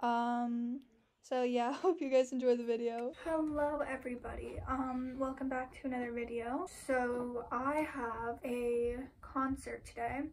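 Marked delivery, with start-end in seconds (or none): 3.3-10.2 talking while chewing gum; words around a wad of gum. Real, not acted. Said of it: "I am so sorry about my gum chewing".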